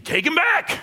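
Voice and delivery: high, loud, laughing jab; mock outraged, very high; laughing mock demand. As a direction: fling it out half laughing. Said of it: "Lauren's thinking".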